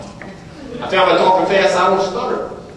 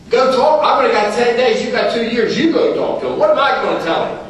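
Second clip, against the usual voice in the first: high, raised disbelief at being told to go talk; retelling his startled protest to the sponsor; incredulous protest; 6 semitones higher than usual. Retold or imitated. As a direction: protest like a ten-day newcomer, half panicked.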